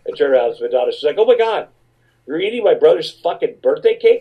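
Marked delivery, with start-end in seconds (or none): 1.2-4.2 high, outraged gasp at the cake; shocked outburst. Retold or imitated. A singer finding them eating her brother's cake, high and outraged. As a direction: catch them red-handed, appalled.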